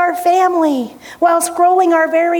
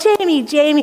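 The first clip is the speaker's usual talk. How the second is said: tender correction. Retold or imitated. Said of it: "It's this tender correction".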